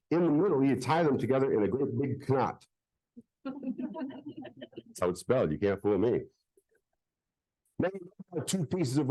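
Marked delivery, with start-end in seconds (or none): 3.4-5.5 silly voice. Acted. Silly aside about knot.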